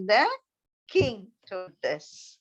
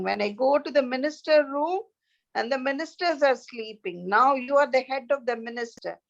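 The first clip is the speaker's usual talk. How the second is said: a lightly voiced king, raised and complaining; king scolding his head minister, pitched up and peeved; annoyed hungry king; 4 semitones higher than usual. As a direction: grumble like a hungry, fed-up king.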